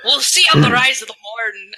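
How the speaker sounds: put-on broad Scottish accent. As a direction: say it like a Scot. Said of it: "I say in a Scottish accent".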